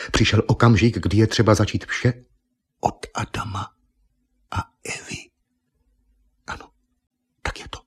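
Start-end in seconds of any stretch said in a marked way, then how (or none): 2.8-7.8 breathy whisper, almost unvoiced. A narrator's reading. Narrator whispering Argon's sudden realization. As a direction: hush it like a secret thought.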